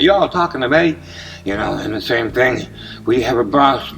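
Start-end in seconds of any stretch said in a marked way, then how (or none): 0.0-1.0 Southern accent. Shown as a demonstration. Imitating a German who learned English from Southerners, in a Southern accent. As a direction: put on a Southern twang, rising on the question. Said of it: "he'd do it with a Southern accent".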